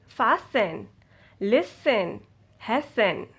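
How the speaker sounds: FASTEN, LISTEN, HASTEN with silent T; correct pronunciation. Shown as a demonstration. Teacher reading examples to students, silent-T pronunciation demo. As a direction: say fasten, listen, hasten with only an S sound before -en. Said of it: "This how to say it".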